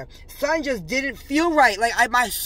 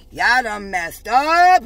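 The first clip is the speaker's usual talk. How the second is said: mock scolding; 2 semitones lower, 5 dB louder, much slower than usual. Repeated catchphrase, louder take.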